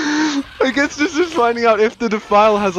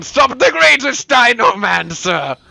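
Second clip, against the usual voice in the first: theatrical boast; 5 semitones higher than usual. Pretend. Quotes game taunt theatrically.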